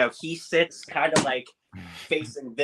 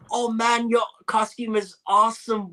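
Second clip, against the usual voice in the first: attempted Scottish accent; 10 semitones higher, 4 dB louder than usual. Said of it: "I can't do, like, her Scottish accent".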